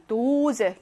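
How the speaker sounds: "도제" with "도" held long; slow German "도제", drawn-out stressed O; long vowel. Shown as a demonstration. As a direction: stretch the first vowel of "도제". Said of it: "길게 발음하고요".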